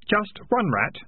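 high, lightly helpful offer. Acted. Keith prompting the failing piper, high and helpful. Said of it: "said Keith helpfully".

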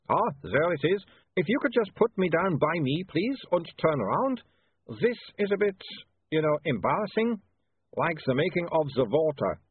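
put-on high, coy accented vampire; a bashful vampire. Embarrassed vampire.

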